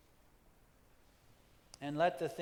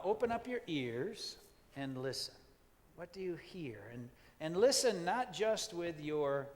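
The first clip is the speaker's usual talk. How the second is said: guided meditation. Acted. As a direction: invite them to listen, then leave space. Guides listeners' senses.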